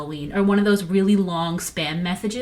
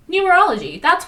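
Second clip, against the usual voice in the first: mock dramatic reveal; 9 semitones higher, 4 dB louder than usual.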